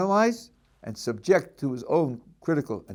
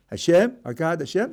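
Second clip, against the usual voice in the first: "Hashem," pause, "our God, Hashem," with rising ends; mock Trinity reading again; split into three; 3 semitones higher than usual. Shown as a demonstration. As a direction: count the names off one by one. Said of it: "count 'em again".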